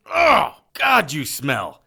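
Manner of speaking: slow, repulsed groan at the stench; disgusted. Acted. Harry grappling the squid monster, disgusted by its smell. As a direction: recoil from the smell.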